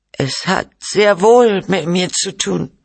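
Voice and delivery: high, slow, indignant hurl; angry retort. A narrator's reading. Wife hurls objection at her husband, angry and high. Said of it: "schleuderte sie ihm entgegen".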